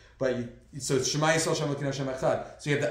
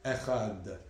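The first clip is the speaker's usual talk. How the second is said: Echad, lower, holding on into the final d; extended last letter; 4 semitones lower, 4 dB quieter than usual. Shown as a demonstration. Teacher showing how to extend the Dalit, Echad held at the end. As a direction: draw out the ending of Echad. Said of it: "should especially extend the last letter".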